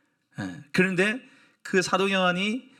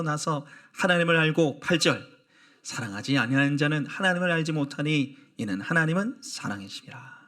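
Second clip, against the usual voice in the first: scripture reading. Acted. Congregation reads scripture.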